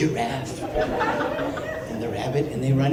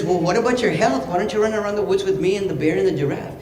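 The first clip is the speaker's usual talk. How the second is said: lightly voiced high rabbit; coaxing rabbit; 5 semitones higher than usual. Rabbit urging elephant to run along, slightly high voice. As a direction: raise the pitch a little and coax.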